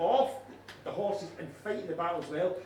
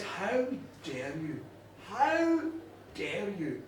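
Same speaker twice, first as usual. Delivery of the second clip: indignation; 3 semitones lower, 5 dB quieter, slower than usual. A narrator's reading. Macha confronts the mocking king.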